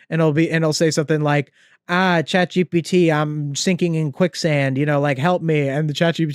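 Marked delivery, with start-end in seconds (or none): 1.9-5.7 level, flat, droning monotone. Imitating a TikTok guy talking to his ChatGPT, in a really monotone voice. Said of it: "in like the really monotone voice".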